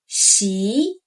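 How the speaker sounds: 习 rising upward. Shown as a demonstration. Teacher demonstrating 习 for learners, rising tone. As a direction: lift 习. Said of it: "rising tone".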